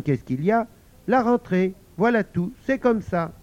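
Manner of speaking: put-on a child reasoning like a parent; patient child. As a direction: explain it gently but firmly. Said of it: "dit doucement". (Pauline raisonne sa maman avec patience)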